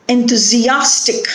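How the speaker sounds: "Enthusiastic" stressed on AS. Shown as a demonstration. Teacher giving an example word, "Enthusiastic" stressed on AS. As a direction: build up to AS in "Enthusiastic". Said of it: "the stress is on".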